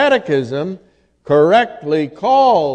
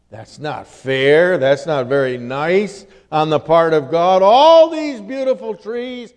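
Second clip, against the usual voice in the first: insinuating devil; 5 semitones higher than usual. Retold or imitated. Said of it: "What's Satan doing?".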